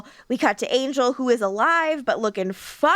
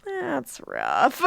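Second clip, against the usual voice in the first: Lindsay voice; 6 semitones higher, much slower than usual. Retold or imitated. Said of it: "every time you're just like".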